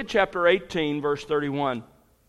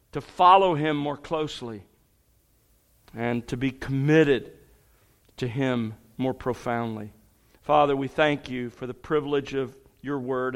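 prayer. Acted. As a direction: pray it humbly and reverently. Leads the room in prayer.

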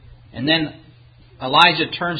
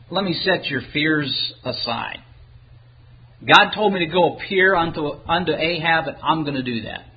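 quieter, settled reassurance; calm reassurance; 4 dB quieter than usual. Acted. Elijah sets a man's fears aside, calm reassurance. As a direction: reassure him, letting the voice drop away. Elijah calms the fearful man.

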